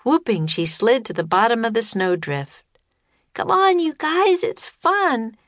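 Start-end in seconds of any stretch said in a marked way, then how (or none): 3.3-5.4 shouting. A narrator's reading. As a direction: shout up to them from below. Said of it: "she shouted".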